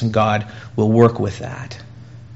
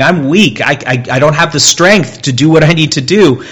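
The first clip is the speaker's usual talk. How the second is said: raised, anguished confession; pleading weakness; 4 semitones higher, 4 dB louder than usual. Acted. Preacher voices Paul admitting weakness to God, raised and anguished. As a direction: confess weakness aloud, straining.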